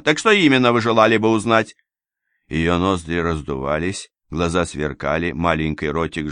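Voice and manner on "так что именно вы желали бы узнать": louder, cold and challenging; haughty lady. A narrator's reading. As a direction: dare him to ask. Анна допрашивает сыщика. (надменно, с вызовом)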